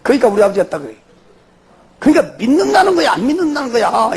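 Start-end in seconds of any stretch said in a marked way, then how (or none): 2.0-4.2 laughing through the words, then trailing into a breathy laugh. Real, not acted. Laughing while recalling the father's choice. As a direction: chuckle while you say it, amused by the memory.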